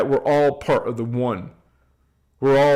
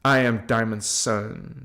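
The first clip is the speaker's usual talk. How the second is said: guided affirmation; 5 semitones lower, 4 dB quieter than usual. Shown as a demonstration. Teacher leading viewers in affirmations, solemn call to repeat. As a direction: lead the group in a sacred affirmation. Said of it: "Say it with me".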